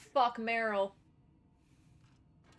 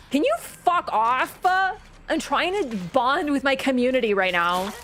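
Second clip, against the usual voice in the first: mock telling off; 2 semitones higher, 7 dB louder than usual. Telling someone off on stream.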